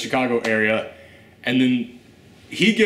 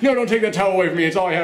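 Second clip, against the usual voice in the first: freaking out; 4 semitones higher, much faster than usual. Retold or imitated. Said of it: "he starts freaking out".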